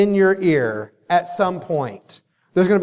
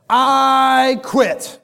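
put-on higher, pouty kid voice storming off; child quitting; 7 semitones higher, 3 dB louder than usual. Daughter storming off the field, declares she quits in a higher pouty voice. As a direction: play the upset little girl.

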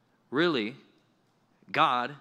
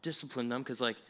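mocking soft tone; 4 dB quieter than usual. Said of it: "And non-Christians will say".

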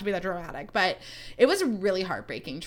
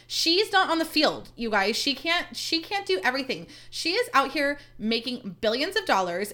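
indignant defence; 4 semitones higher than usual. Real, not acted. Indignantly defending singer from blame.

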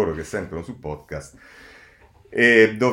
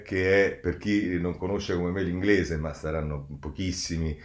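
ordinary talk

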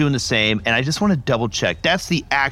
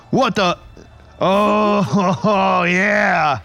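excited disbelief; 6 semitones higher than usual. Real, not acted. Surprised by random teleport.

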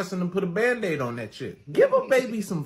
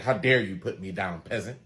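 put-on haughty toddler; 8 semitones lower than usual.

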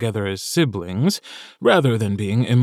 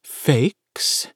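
whisper yelling; 4 semitones higher than usual. A narrator's reading. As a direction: hiss it like a scandalous secret. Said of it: "whisper shouting".

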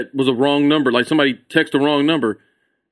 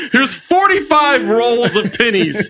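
Cheatham; 4 semitones higher, slower than usual. Acted. Acts Cheatham paying in pennies.

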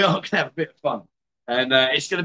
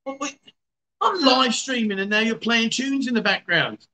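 exasperated; 6 semitones higher than usual. Real, not acted. Partner plays music during stream.

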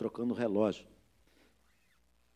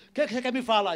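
retold demand; 11 semitones higher, 7 dB louder, faster than usual. Acts out the irritated man's demand.

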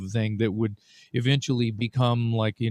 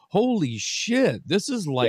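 imagined amazed fan; 6 semitones higher than usual. Acted. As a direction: voice a stunned listener, stretching the opening. Voicing amazed fans' first reaction.

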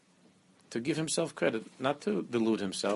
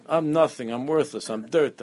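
mock outcry, raised and louder; imitated screaming; 4 semitones higher, 5 dB louder than usual. Imitating the screamed-out bad stuff, mock loud. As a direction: half-shout it like the screamer. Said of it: "You only screamed out the bad stuff".

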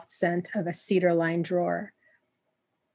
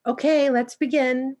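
higher, louder call to order; raised voice to start the class; 7 semitones higher, 4 dB louder than usual. Acted. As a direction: call out over chattering women. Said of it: "the workshop leader said loudly".

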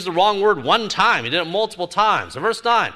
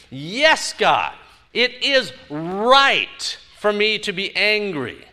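doubling down; 5 semitones higher, 3 dB louder, much slower than usual. Retold or imitated. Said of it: "doubling down on your statement".

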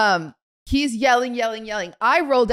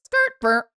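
playful imitated tyre screech and stop; imitated car skirt-burr. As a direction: mimic a car jerking. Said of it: "And I go".

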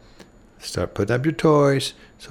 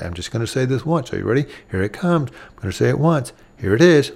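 level, patient parent voice, no raised tone; calm one-time instruction; faster than usual. Shown as a demonstration. Parent kneeling to the child, calmly announcing the order. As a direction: say it once, calmly and clearly. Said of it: "in a totally different way".

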